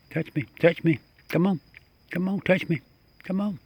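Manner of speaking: coaxing. Real, not acted. Coaxing raccoon to touch hand.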